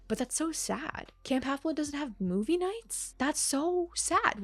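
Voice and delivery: high, slow, drawn-out pity; exaggerated pity, stretching so sad; mock dismay. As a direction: play up how tragic it is.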